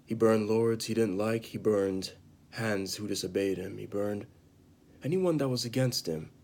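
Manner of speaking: lightly acted bitter confession, with long pauses; acted Jaime Lannister. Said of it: "I'm gonna perform it right now".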